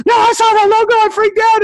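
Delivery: excited insistence. Retold or imitated. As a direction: insist she saw it, thrilled. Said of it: "She goes".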